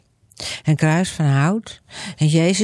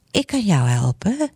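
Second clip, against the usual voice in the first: God's voice; 2 semitones higher than usual. Acted. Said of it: "zegt Gods stem".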